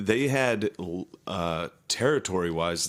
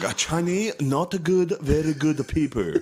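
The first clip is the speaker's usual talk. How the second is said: mock Asian accent; 8 semitones higher than usual.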